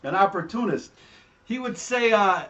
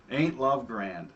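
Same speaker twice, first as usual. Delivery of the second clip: sarcastic; 3 semitones lower, slower than usual. Retold or imitated. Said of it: "more sarcastic".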